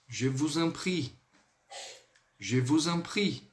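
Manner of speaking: "je vous en prie" said slowly and clearly; slow demo. Shown as a demonstration. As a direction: carefully model "je vous en prie". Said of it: "muito importante que vocês vão ouvir". ("je vous en prie" devagar)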